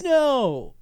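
sudden high shout of no; mock cry of dismay. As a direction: cry out as the phone flies. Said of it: "He's like".

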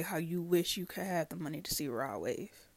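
whispered aside. Real, not acted. Friend's secret wish.

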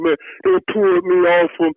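usual speaking voice

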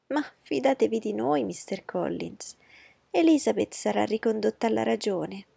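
high, pushy voice of a fussing mother; a flustered matron laying down the law; anxious mother. Acted. Mrs Bennet voiced by narrator. (madre agitata, voce alta e insistente)

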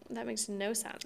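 soft unvoiced disbelief; whispered aside. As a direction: whisper it under your breath. Incredulous aside while retelling.

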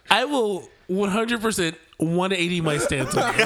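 speaking through laughter; half laughing the words. Real, not acted. Laughing concession.

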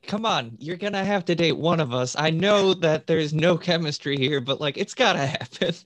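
hammed-up pushy coaxing; mock exasperated plea. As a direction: lean on it like you're fed up waiting. Voices characters pleading with another.

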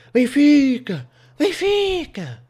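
high, loud drawn-out holler; high-pitched yell with a long stretched vowel; woman bellowing. Retold or imitated. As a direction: bellow the name across the street. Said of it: "uma senhora a, a, a berrar assim".

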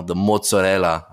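mozzarella in a hammed-up Italian accent, as mots-o-della; a playful try at an Italian accent, said badly on purpose; mock Italian accent. Podcaster names a favourite pizza cheese, in a mock Italian accent. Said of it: "I'm probably butchering that".

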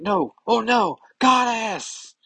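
high, loud mock panic; panicked cry. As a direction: cry out in dread. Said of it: "She's like".

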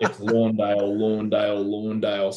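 "Lawndale" repeated evenly with a LAWN first syllable; drummed-home mispronunciation. Retold or imitated. Podcast hosts drumming the wrong surname home, insistent "Lawndale". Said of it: "drumming at home".

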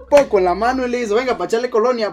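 loud, high voice breaking into laughter; laughing while telling. Real, not acted. Storyteller tells how mum put cologne on the cousin, laughing. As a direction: barely get the climax out for laughing.

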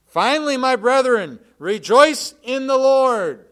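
loud and high, slowing on the Lord; booming scripture. Real, not acted. Preacher to congregation, booming loud scripture. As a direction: proclaim it to the whole room.

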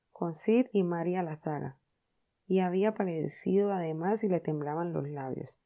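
plain reading voice

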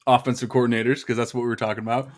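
talking around a piece of ice; words slurred by ice in the mouth. Real, not acted. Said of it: "I have a piece of ice in my mouth".

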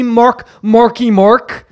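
slow Boston drawl on "Marky Mark"; Boston accent. Retold or imitated. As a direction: announce the name the Boston way. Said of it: "saying your name is Marky Mark".

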